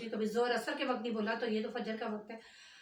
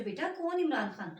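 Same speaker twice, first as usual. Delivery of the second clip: "बेटा, कौन Imran Khan?" called out louder, falling at the end; louder question; 4 semitones higher, 4 dB louder than usual. Retold or imitated. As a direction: call "बेटा" down louder to the visitor at the door. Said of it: "मैंने ऐसे करके पूछा". (ज़ोर से पुकार कर पूछना)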